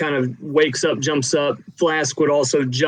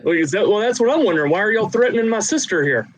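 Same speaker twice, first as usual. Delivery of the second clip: high indignant voice; 7 semitones higher, faster than usual. Acted. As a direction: demand answers, indignant. River Mist confronts protectors.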